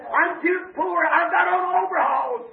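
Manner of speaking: fervent preaching. Real, not acted. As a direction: preach it to a responsive congregation.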